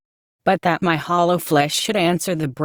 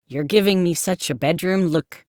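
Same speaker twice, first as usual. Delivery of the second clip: Essex whine. Acted. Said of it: "he said in a nasal Essex whine".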